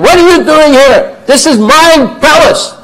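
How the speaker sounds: high, loud royal demand; king shouting at the sadhu outside his palace; angry king. Acted. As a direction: bellow at the trespasser. King confronts squatting sadhu.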